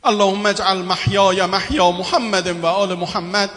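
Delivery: closing prayer. Acted. Closing supplication.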